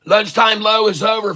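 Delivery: calling out. Real, not acted. Streamer calling out to viewers.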